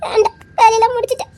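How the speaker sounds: speaking through tears; wife answering her husband while crying; tearful. Acted. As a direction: let the crying catch in it.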